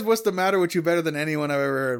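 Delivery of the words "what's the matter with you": De Niro impression. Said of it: "he says".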